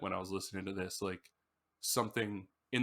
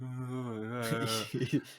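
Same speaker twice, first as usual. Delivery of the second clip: drawn-out groggy moan; long, half-asleep groaning wail; muffled dream yell. Retold or imitated. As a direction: imitate trying to yell through sleep. Imitates sleepy yelling in dream.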